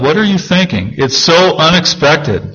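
lightly acted high-pitched disbelief; incredulous Habakkuk. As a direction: question God, baffled, pitch lifted. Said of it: "what Habakkuk is saying here".

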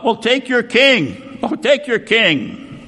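slow, mock-offering sneer. Pilate mockingly offering the crowd their king, slow sneer. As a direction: dangle it in front of them, scornfully. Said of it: "See, kind of mocking".

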